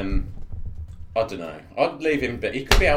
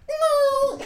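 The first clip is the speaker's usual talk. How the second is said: very high, drawn-out wailing "no"; over-the-top movie scream; mock cry of horror; 5 dB louder than usual. Player opening a wheel door, hammed-up high wail. Imagined dramatic reaction at ship's door.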